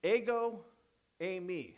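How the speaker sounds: "Ego" said "AY-go", "eimi" said "AY-mee"; slow Greek "Ego, eimi"; Greek pronunciation. Shown as a demonstration. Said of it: "Anyone know what that says?".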